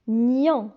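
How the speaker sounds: Gnon said as ny plus a nasal on; syllable demo. Shown as a demonstration. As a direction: blend Gnon slowly. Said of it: "se prononce gnon".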